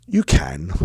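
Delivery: retold brave-faced child; trying not to cry. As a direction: give in reluctantly, imitating a tearful child. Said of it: "She was trying not to cry".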